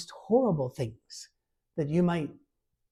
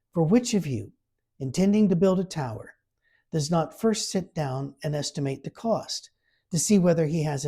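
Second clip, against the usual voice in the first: louder, measured Bible reading; scripture reading; 3 dB louder than usual. Acted. Preacher reading Luke aloud to the church, formal reading. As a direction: read the passage out with weight.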